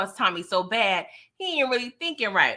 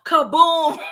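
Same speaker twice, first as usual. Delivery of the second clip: mock explosion; 7 semitones higher, 9 dB louder than usual. Acting out Vic's bomb.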